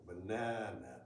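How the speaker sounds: banana, middle syllable drawn out; English banana, long na; English pronunciation. Shown as a demonstration. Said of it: "three times as long as the first".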